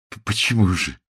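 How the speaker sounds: halting question with a stumbled start; hesitant. A narrator's reading. Man timidly questions his upset fiancée, hesitant. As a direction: trip on the first sound, unsure. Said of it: "нерешительно вымолвил он".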